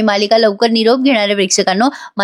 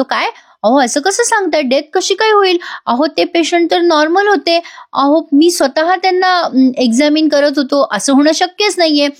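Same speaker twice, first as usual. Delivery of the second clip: higher, voiced protest of disbelief; lightly acted doctor protesting, pitched up; shocked disbelief; 6 semitones higher than usual. Aarav protests to the nurse about the death, pitched-up disbelief.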